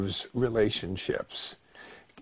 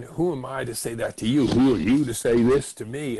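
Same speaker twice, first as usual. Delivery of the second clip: mock indignant retort, building louder; anger in return; 4 dB louder than usual. Attacked partner answering back, anger in return. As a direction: fire the accusation back, punching the words. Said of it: "you get anger in return".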